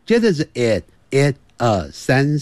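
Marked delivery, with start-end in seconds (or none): 0.5-1.4 "it" with a short, lax "i"; short vowel. Shown as a demonstration. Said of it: "那it就短的元音".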